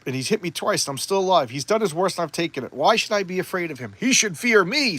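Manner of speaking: villain's mock pep talk, building to defiance; psyching himself up. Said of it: "So he's psyching himself up".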